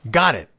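an emphatic "Got it"; crisp acknowledgement on "Got it". Shown as a demonstration. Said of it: "go with an emphatic".

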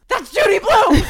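high, loud starstruck shout; excited shout. Retold or imitated. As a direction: blurt it out like you just spotted a celebrity. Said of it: "lunges forward and just goes".

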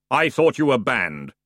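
lightly voiced sepulchral figure; voice felt, not heard. A narrator's reading. Ferryman objecting to banned passengers, lightly sepulchral. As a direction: object like a weary Death. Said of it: "in a voice that was not so much heard as felt".

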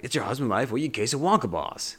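imitated gravelly Northeastern detective; lightly gravelled New York or Boston voice; gravelly Northeastern accent. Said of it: "It's like a gravelly voice there".

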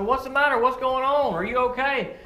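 retold father calling out in alarm; alarmed dad. Dad rushing to screaming daughter.

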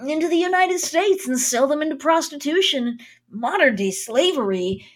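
lightly voiced anime boy. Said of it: "it's really my anime boy voice".

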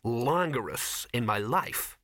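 slow, measured coolness; icy, deliberate statement; cold. Acted. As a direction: put them coolly in their place. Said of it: "said Ginger coldly".

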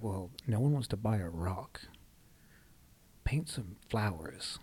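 hushed, slow mock of a pushy adviser; lightly voiced know-it-all, slow at the end; mock advice-giver. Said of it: "they'll be like".

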